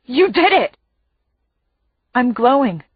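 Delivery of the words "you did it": high, excited exclamation; yelling. A narrator's reading. Brother amazed at his sister's magic, yelling. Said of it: "he yells".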